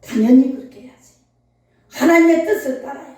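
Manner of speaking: a hint of a firm husband insisting; husband's firm reply. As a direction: press 당연히 as settled fact. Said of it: "우리 장로님 뭐라 했는지 알아요?".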